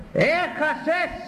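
high, slow, drawn-out taunt with a rising end. Acted. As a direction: stretch out Έχασες high and mocking. Taunting the one who lost. (κοροϊδευτικό, αργό και ψηλό Έχασες)

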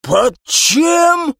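high shocked cry; high yelp. Acted. Captain hearing about undercover operation, high shocked yelp. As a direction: squeak it out in shock. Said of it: "завопил капитан".

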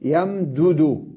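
يمدد stretched as yam-du-du, each dal apart; يمدد with the mim still and both dals moving; slow demo. Shown as a demonstration. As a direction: draw out يمدد slowly. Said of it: "الميم ساكنة".

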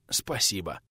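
a sick man's faint wheeze; wheezed. A narrator's reading. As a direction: barely get the word out after seasickness. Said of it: "просипел трудовик".

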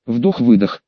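slow deliberate breaths; deep breathing. Acted. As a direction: breathe in and out heavily. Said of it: "схватился за дыхание".

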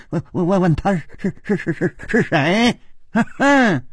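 stuttering, sneering villain; savage sneer. A narrator's reading. Assassin scorns his partner's right to ask, savage sneer. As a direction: stammer the scornful words, ending on a snort. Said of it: "狞笑着说".

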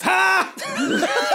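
high sharp triumphant ha; mocking cackle. Fanny in the corner, cackling at the scene. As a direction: bark a gleeful laugh. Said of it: "Fanny from the corner goes".

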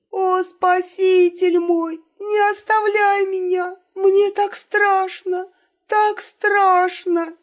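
high, slow, tearful hammed-up plea; fake sobbing. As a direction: sob and cling to the saviour. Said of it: "Очень натурально всхлипнула Елена".

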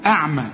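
أعمى opening on a thin, fronted "a"; light hamza. Shown as a demonstration. Teacher quizzes on hamza, أعمى said with thin vowels. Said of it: "أمال هنا جاي ليه".

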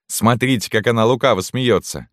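high, delighted woman's voice; admiring canteen woman. A narrator's reading. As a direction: point out the baby with delight. (маркитантка, высоко и с умилением)

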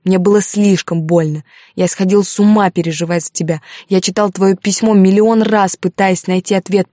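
heated reproach to his lover; restrained anger. Acted. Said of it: "тяжело дыша от гнева".

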